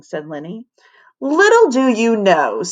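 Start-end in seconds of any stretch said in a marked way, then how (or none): 1.2-2.6 snooty know-it-all tone; sniffy. Acted. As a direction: sniff it superiorly. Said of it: "sniffed Stanford".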